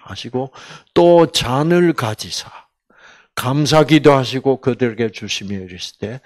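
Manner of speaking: ordinary talk, nothing marked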